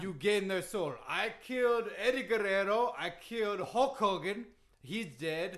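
put-on emphatic accented wrestler explanation; Iron Sheik. Wrestler setting the host straight, emphatic broken English. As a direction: lay down absurd rules in broken English. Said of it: "that Iron Sheik impression".

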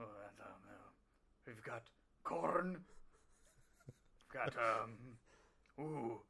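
quiet, low, unhurried mumbling to himself while shopping; lightly voiced wrestler musing over vegetables; Alberto Del Rio. Actor playing a wrestler alone in a grocery aisle, quiet and musing. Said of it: "Batista playing Alberto Del Rio in a grocery store".

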